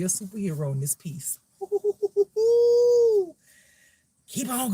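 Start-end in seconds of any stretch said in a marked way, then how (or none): 1.6-3.3 drawn-out, loud high whoop; high hooting laugh. Real, not acted. Reader cheering on a superhero, whooping laugh. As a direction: hoot in quick bursts, then hold it high.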